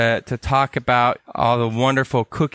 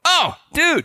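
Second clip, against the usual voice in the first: California surfer voice. Retold or imitated. Calling out to his buddy in a high California dude voice. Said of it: "That's how we all talk".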